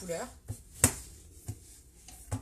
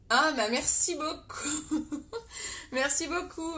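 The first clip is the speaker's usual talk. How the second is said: laughing thanks; 5 semitones higher, 4 dB louder, slower than usual. Real, not acted.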